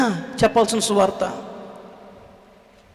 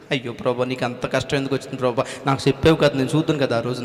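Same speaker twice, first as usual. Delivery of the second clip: mock wailing; 8 semitones lower, 4 dB quieter, faster than usual. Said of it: "అన్నట్టే ఏడుతున్నారు వీళ్ళందరూ".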